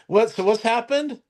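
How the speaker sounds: high-pitched imitation of a clueless latecomer; mock puzzled questioning. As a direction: ask it way up high, acting out puzzlement. Retold doctor turning up, asking questions.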